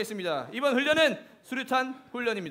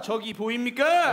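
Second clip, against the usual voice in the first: drill call; slower than usual. Acted. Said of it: "목소리 봐라".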